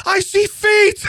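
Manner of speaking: sudden high yell of alarm; shouting. Retold or imitated. Husband shouting in alarm at the dog's find. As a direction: yell it out like you just spotted something gross. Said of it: "He's yelling".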